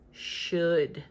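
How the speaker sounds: slow, sarcastic drag on "should", as if in air quotes; mock the word "should" with dramatic sarcasm. Real, not acted. Mocking old rules, slow sarcastic air quotes on "should". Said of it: "Very sarcastic and dramatic air quotes there around should".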